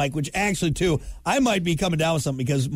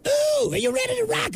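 daughter's hoarse voice as a shrieking rock singer, much higher; a rock singer's scream. Retold or imitated. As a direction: belt it like a hoarse rock frontman. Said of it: "What is that, a rock singer?".

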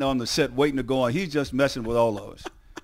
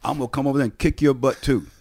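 mother's raised-voice warning, easing off; scolding threat. Acted. Mother warns the laughing teammates to shut up, acted scolding.

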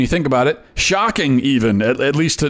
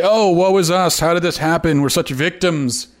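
mock self-pity; 4 semitones higher than usual. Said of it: "and say".

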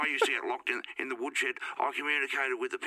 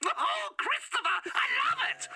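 much higher, slow, crying mock father; impression of father; slower than usual. Caller impersonates his father, high and slow with mock sobbing. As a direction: wail it out as a hammed-up weepy dad. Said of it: "here's an impersonation of my father".

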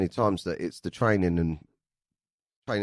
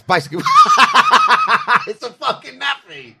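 laughing through the words; cracking up mid-sentence; 10 dB louder than usual. Real, not acted. Laughing at the nappy story.

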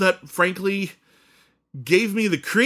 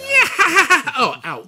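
high, loud cackling ghoul; Crypt Keeper; 13 semitones higher, 7 dB louder, much slower than usual. Acted. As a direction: shriek out a hammy horror-host cackle. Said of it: "can't do my Crypt Keeper voice".

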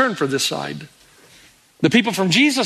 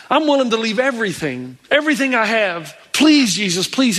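acted earnest begging, mildly raised; pleading; 2 semitones higher than usual. Healed man begs Jesus to take him along, pleading. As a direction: plead as if on your knees, without crying. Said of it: "he begs and he pleads and he cries".

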